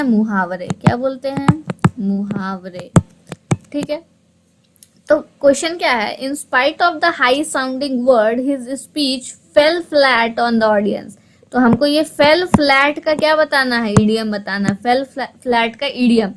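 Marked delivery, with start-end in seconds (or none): 6.2-11.2 very slow, careful reading of an English sentence; slow dictation pace for students; slow reading aloud. Shown as a demonstration. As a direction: read it out slowly so the class can follow. Teacher reads the question aloud.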